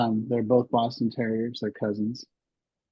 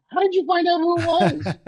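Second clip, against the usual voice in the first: high, squeaky question through laughter; laughing; 5 dB louder than usual. Retold or imitated. Retelling the call to the breeder, laughing through the question. Laughing while quoting herself.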